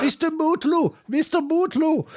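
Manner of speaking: high, drawn-out search call. Acted. Searcher looking for someone in the forest, calling out high. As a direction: call a missing man's name in a high put-on voice. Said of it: "And, and then somebody said".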